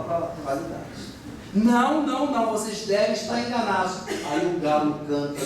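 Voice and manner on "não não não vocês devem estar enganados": emphatic denial. Retold or imitated. Peter's third denial.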